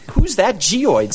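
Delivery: slow, high, drawn-out movie-star croon; glamorous old hollywood star. Pretend. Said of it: "I just love saying that".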